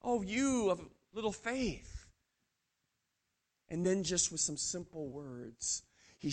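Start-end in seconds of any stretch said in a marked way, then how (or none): 0.0-2.1 softly and slowly, like a calm master; gentle rebuke. Acted. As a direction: hush it, a tender reproach. Jesus voiced rebuking gently.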